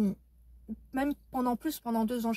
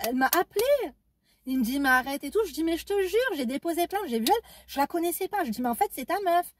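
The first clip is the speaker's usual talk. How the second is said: higher, louder, insisting; insistent retold exclaim; 5 semitones higher, 3 dB louder than usual. Insisting to her ex about his girlfriend, raised and insistent. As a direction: swear it's true, pitched up.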